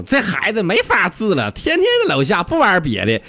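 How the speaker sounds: nagging, high-pitched wife complaint; 吵吵抱怨. Acted. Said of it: "这一进屋就搁那吵吵". (媳妇儿吵吵抱怨)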